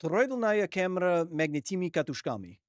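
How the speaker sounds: "Troidlnaya Kamera Magnitimi Katushkami" said as Russian; Russian pronunciation. Shown as a demonstration. Streamer correcting the full acronym, "Troidlnaya Kamera Magnitimi Katushkami" in Russian pronunciation.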